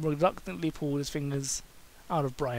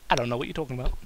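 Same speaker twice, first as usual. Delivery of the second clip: sarcastic; 2 semitones lower, much faster than usual. Acted. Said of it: "Kane said sarcastically".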